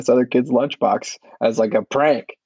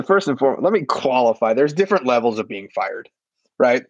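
ordinary delivery

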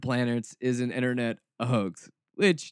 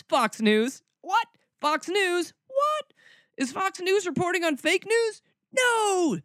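high squeaky mock disbelief, much higher; mock shock. Mocking fake news fans with high mock shock. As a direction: gasp in fake astonishment.

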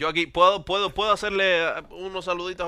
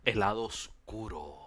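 acted punchline; 7 semitones lower, 10 dB quieter than usual. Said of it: "lo que él hizo malo fue que lo actuó".

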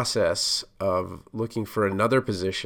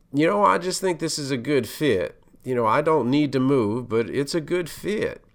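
a touch of Texas twang, not overdone; 4 semitones higher than usual. Retold or imitated. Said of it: "in his Texas twang".

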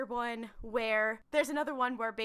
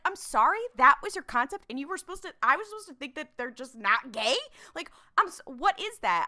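incredulous; 4 dB louder, faster than usual. Acted. Reader reacting to the author's concept, incredulous. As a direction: act out baffled disbelief, pitch jumping up.

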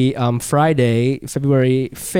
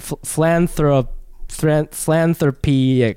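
slow stumbling; slower than usual. Real, not acted. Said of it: "what is that word?".

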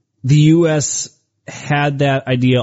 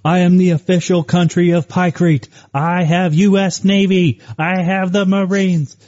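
lightly hammed-up proclamation, higher in pitch; mock official declaration; 6 semitones higher than usual. Joking as a new island nation claiming allies, mock-official. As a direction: declare it like a self-proclaimed head of state, half in jest.

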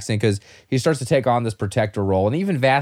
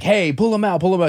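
half-voiced imitation of yelling; mild mock yell; 7 semitones higher than usual. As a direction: imitate someone calling out urgently. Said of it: "like, yelling at him".

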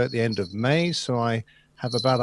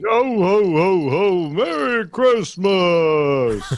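jolly ho ho ho; 5 semitones higher, 4 dB louder, much slower than usual. Pretend. Santa-bearded host greets the show.

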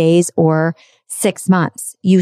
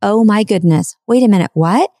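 mock amazement. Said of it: "The talking heads are following, saying".

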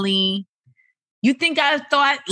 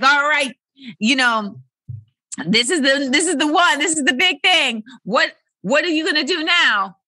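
excited mock quote; 7 semitones higher than usual. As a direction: pump yourself up for the big moment. Quote of turning-forty feeling.

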